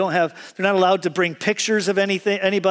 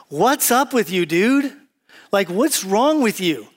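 exasperated; 3 semitones higher, slower than usual. Acted. Preacher acts out meeting someone cantankerous, exasperated. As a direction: confront the grouch in playful disbelief. Acts out reaction to angry person.

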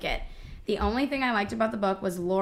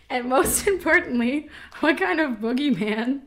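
mock reviewer voice; 5 semitones higher, 3 dB louder than usual.

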